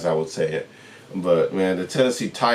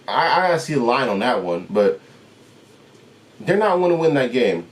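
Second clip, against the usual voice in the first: irritated dismissal; 6 semitones higher than usual. Real, not acted. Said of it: "I'm really irritated right now".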